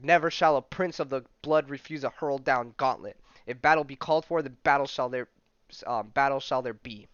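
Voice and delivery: loud, lofty declaration; proud challenge. Acted. Prince of the blood answering Hulk's attack, loud and proud. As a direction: accept the duel like royalty.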